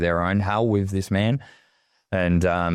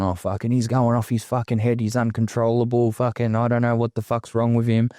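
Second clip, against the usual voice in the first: a retold dad, a bit raised and rattled; frantic father; 3 semitones higher than usual. Father tells family member his son's gone off, frantic. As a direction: mimic a panicking old man venting. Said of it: "my old man was just frantic".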